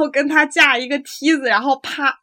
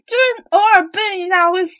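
crying; 4 semitones higher than usual. Real, not acted. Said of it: "你哭什么呀".

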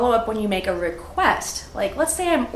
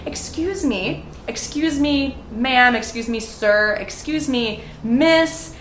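getting attention; 3 semitones higher than usual. Pretend. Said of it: "get someone's attention".

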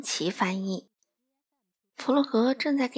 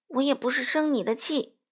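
sulky; 4 semitones higher than usual. Acted. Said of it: "佛洛格赌气地答道".

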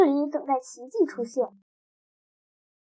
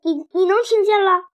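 stunned; 5 semitones higher than usual. Acted. Cat hears again, disbelief.

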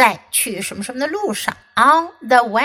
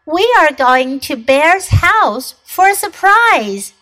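Fox voice; 5 semitones higher, 5 dB louder than usual. Acted. Fox voiced in read story.

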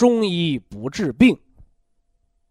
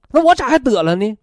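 put-on old lady asking; 7 semitones higher than usual. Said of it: "一个老太太得肺结核还问我".

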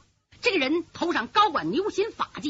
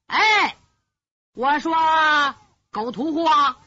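loud, raised-pitch call to a far-off partner; calling into distance; 2 semitones higher, 6 dB louder than usual. A narrator's reading. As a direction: holler across the distance as the blind old man. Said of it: "瞎老人冲远处喊".

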